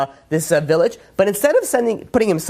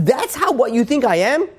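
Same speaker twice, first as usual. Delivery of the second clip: mock royal outrage, pitched up; outraged king; 7 semitones higher than usual. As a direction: play an insulted king, drawing it out.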